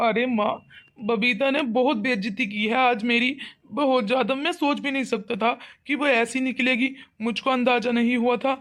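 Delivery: mildly weepy, hurt son; acted tearful complaint. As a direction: complain to mother with a touch of crying. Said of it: "लड़के को ऐसे रोता हुआ देख रही हूँ". (हल्की रोनी आवाज़ में शिकायत)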